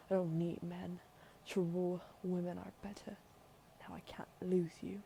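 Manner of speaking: put-on firm British-accented queen; put-on British royal mother. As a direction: refuse to let your heir go, in British tones. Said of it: "I felt like giving her a British accent".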